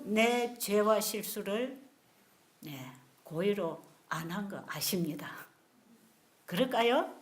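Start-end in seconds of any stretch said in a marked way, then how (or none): 2.6-5.3 soft reassuring whisper. Real, not acted. Preacher whispering that God knows. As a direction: breathe it gently.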